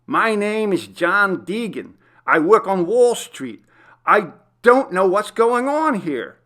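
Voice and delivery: high, loud desperate plea; frantic prisoner insisting on his real name; panicked pleading. Acted. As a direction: beg the guard to believe him. Pleading with the guard.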